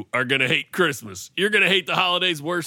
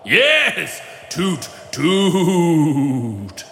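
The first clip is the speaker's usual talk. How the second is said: ghost voice; much slower than usual. Acted. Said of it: "You don't like my ghostly chest voice".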